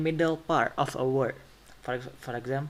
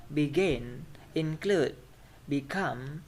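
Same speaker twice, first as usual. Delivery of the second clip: begin, include, become punched on the last syllable; second-syllable stress; slower than usual. Shown as a demonstration. Teacher giving verb examples, be-GIN, in-CLUDE, be-COME. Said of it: "stress will be on the second syllable".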